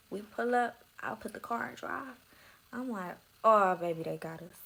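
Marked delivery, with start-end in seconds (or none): 3.4-4.6 retold alarm. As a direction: blurt the opening, let the rest fall away. Same reaction retold again.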